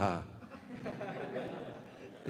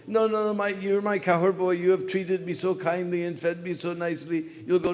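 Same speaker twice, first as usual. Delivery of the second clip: much higher protesting cow voice; fighting cow; 5 semitones higher than usual. Retold or imitated. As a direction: protest kindly but urgently. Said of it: "They were all fighting like this".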